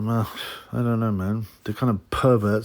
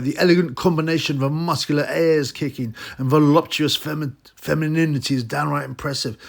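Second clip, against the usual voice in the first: lightly raised, gushing mock reviewer voice; 5 semitones higher, 3 dB louder than usual. Vlogger mocking the reviewer's gushing praise, lightly raised. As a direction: gush over it like a smitten fan, a bit higher. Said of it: "This is a direct quote".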